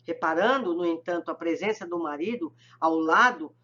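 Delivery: ordinary delivery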